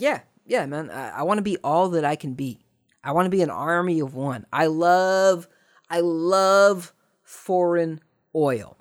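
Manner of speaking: put-on loud, gung-ho young recruit; hammed-up eager teen, slowing at the end; mock eager recruit. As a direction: sell it like a brainwashed fan.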